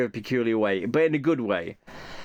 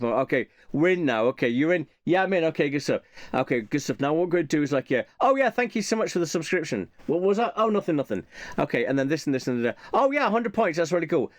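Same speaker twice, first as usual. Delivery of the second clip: chatty streamer voice, a bit higher, thanking a subscriber; gamer on stream; 3 semitones higher, faster than usual. Retold or imitated. Gamer mid-stream thanks a subscriber, lightly acted chatty voice. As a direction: lightly play the streaming gamer in the war game skit.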